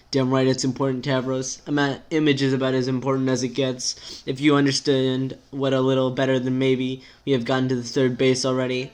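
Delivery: lightly voiced, exasperated rant; exasperated character. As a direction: vent the worries in an unbroken rush.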